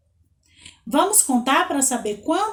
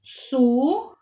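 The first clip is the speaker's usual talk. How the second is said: "Sucessor" broken into su, ces, sor; slow sounding-out of "Sucessor", one piece at a time; syllable by syllable; 2 semitones higher, slower than usual. Shown as a demonstration. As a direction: pause clearly between the three syllables of "Sucessor". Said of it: "Ó, vamos lá?".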